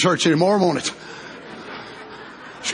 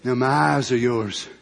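mother eagle; 9 semitones lower, 7 dB quieter than usual. Acted. Mother eagle voiced in story.

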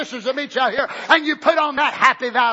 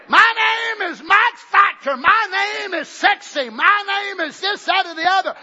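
mock vain sister; 3 semitones higher than usual. Sisters voiced confessing vanities.

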